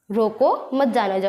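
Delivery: "रोको", a break, then falling "मत जाने दो"; pause after रोको. Shown as a demonstration. Teacher repeats the second reading, pausing after "रोको". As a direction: set "रोको" apart from "मत जाने दो". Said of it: "बीच में थोड़ा रुका".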